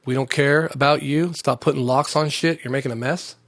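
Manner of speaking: slow mock official. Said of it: "Grand Canyon said".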